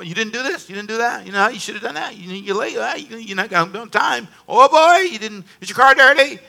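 mocking the nagging inner critic; a light impression of a scolding inner voice. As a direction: nag at yourself, quick and picky. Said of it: "something will come".

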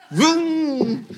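high, mouth-made engine roar; engine vroom. Pretend. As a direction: play a jet engine with your mouth. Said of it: "and you says".

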